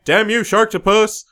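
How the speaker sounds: high, hammed-up curse; mock movie line. Podcaster quoting Ralph Garman's line, high and hammy. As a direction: curse the monster like a B-movie victim. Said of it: "he has the line".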